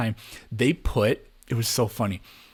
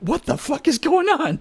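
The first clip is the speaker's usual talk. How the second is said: high, louder disbelieving cry with a laugh; shocked laugh-shout; 4 dB louder than usual. Retold or imitated.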